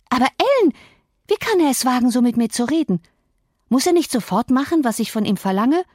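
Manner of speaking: put-on high, offended girl's voice; indignant spoilt girl. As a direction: complain to the nurse, outraged. Girl indignant at servant's rudeness. (hohe, empörte Mädchenstimme)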